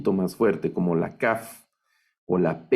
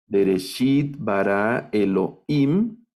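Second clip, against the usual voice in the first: Bereshit, bara, Elohim, each stressed on its final syllable; measured reading, landing on the end of Bereshit, bara and Elohim; acento en las últimas; slower than usual. Shown as a demonstration. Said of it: "aquí va el acento". (Bereshit, bara, Elohim, cada una con acento final)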